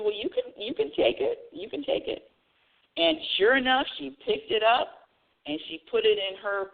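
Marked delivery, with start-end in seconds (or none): 0.0-2.3 quoted self. Retold or imitated. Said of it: "I said".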